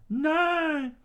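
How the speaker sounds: very high countdown shout; screamed count. Acted. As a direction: yell the number.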